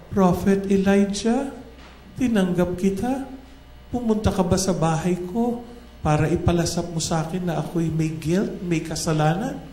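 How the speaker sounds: the widow lightly voicing her reproach; angry widow. Widow reproaching the prophet over her dead son, mildly angry. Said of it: "sa galit nung nanay".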